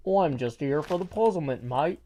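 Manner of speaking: attempted British accent for a chat quote. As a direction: have a go at sounding British. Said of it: "she's got a British voice".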